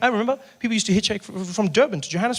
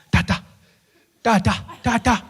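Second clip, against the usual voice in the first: calling out; 3 semitones higher than usual. Acted. Driver waking dying Mandela.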